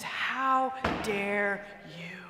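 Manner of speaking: drawn-out, seething how dare you; slow seething resentment. Retold or imitated. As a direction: let How dare you crawl out slowly, held in. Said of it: "The resentment just bubbles over".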